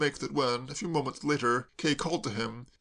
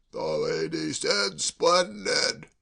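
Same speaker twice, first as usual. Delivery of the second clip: yell; 2 semitones higher, 3 dB louder, much slower than usual. A narrator's reading. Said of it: "yelled Hash".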